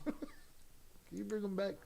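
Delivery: slow, soft words through real laughter; laughing. Real, not acted. Streamer asks Zoraida to bring Primo back, laughing. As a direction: chuckle your way through the question.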